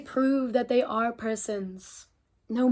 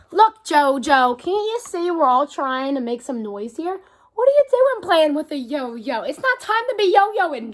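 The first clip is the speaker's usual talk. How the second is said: scolding mayor; 4 dB louder than usual. Acted. Mayor scolds Jojo in story.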